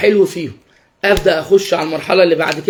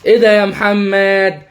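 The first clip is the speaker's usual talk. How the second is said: coaxing question; slower than usual. Shown as a demonstration. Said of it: "هنبدأ مثلًا بالحاجات السهلة".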